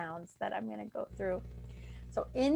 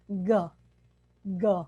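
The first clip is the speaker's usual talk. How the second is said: demo g sound; 2 semitones lower, 4 dB louder than usual. Shown as a demonstration. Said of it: "have them lift and lower".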